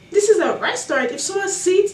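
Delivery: worked-up, incredulous objection; indignant. Real, not acted. Indignant at the seat dispute.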